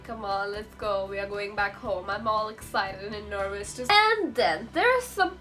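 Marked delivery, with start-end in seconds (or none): 0.0-2.1 chill. Retold or imitated. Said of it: "I'm, like, all chill".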